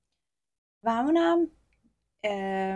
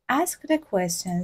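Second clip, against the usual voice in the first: slow model reading; 2 semitones lower, much slower than usual. Shown as a demonstration. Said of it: "سوالاتت رو بپرس".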